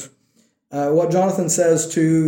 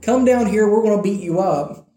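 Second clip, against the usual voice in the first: lightly voiced taunt to fight; taunting enemies; 4 semitones higher than usual. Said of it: "they just taunted them".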